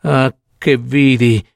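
slow, drawn-out wail of horror; horror-struck. Acted. Old woman recalling what the opened gate showed, horrified. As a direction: draw out each cry, appalled by the memory. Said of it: "stravolta dall'orrore".

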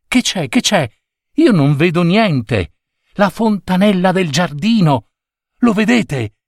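put-on high, eager child's voice; excited questioning. A narrator's reading. Children crowd to see the fountain, high excited questions. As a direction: ask excitedly, pitched well up.

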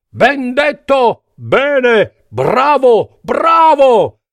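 high, eager cheers; cheering crowd. A narrator's reading. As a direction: applaud the speaker vocally. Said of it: "La folla di topi scoppiò in un grande boato". (folla entusiasta, acuta)

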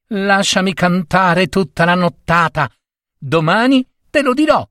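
high piping cricket voice. Acted. Cricket warning the husband in a high voice. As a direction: pipe it up high like a tiny creature.

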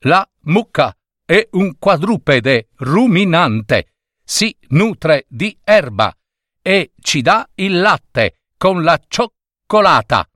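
lightly voiced robot reciting by rote; mild sing-song recital; reciting a lesson. A narrator's reading. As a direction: rattle off the lesson like a schoolbook. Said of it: "cominciò a recitare la zoologia".

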